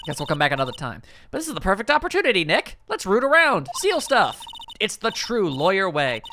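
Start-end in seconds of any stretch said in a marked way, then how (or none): 1.3-6.2 put-on a bouncy young sidekick, half-spooked; excited girl sidekick. Maya voiced, eager game character.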